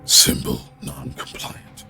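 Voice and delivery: low, slow gravelly machine voice; deep rasping construct voice. Acted. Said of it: "doing the gravelly voice".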